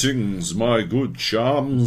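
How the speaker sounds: mock British with an Aussie twang. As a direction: put on a fake British accent that keeps slipping into Australian. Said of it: "you hear the twang every now and then".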